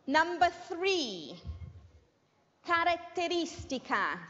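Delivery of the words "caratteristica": Italian word in an English teacher's accent. Real, not acted. Teacher dictating Italian to English learners, English-accented Italian. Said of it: "excuse my Italian accent".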